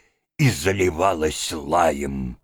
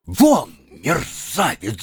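shouting in fury; 5 semitones higher, 3 dB louder, slower than usual. A narrator's reading. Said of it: "закричал Обломов ... трясясь от ярости".

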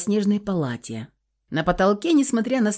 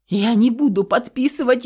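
desperate refusal; 5 semitones higher, 4 dB louder than usual. A narrator's reading. Karina refuses, in horror.

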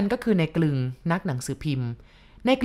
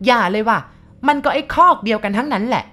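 much higher and louder, a furious bark; snapping shout; 6 semitones higher, 7 dB louder than usual. Acted. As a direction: bark it back at him, spitting contempt. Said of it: "ตะคอกออกมาว่า".

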